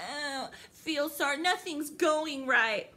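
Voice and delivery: slow mock moan of self-pity; drawn-out, mocking poor-me voice; mock complaining. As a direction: complain woefully, mocking the whiners. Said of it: "getting on here complaining".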